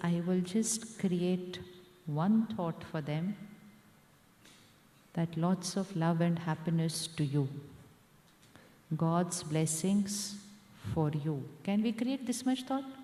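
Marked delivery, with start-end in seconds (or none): 0.1-11.4 low, gentle, slowing on the blessing; tender blessing. Retold or imitated. Speaker blessing those who wronged her, low and tender. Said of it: "And I say".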